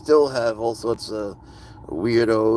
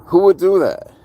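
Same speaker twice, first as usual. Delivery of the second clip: loud, high, disbelieving outburst; outraged shout; 9 semitones higher, 10 dB louder than usual. Real, not acted. Ranting about a critic, he shouts in loud disbelief. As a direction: cry it out in shocked outrage.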